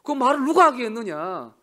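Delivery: loud mock-angry divine rebuke; angry God. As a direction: scold like an angry master. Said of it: "하나님 화가 났어요".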